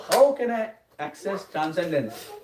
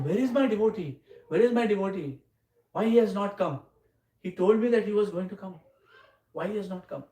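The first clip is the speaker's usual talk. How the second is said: higher-pitched, plaintive questioning; mock worried; 4 semitones higher than usual. Krishna wondering where his promised devotee is, mildly worried. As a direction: voice a mildly worried child waiting for someone. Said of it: "then he, he's worried".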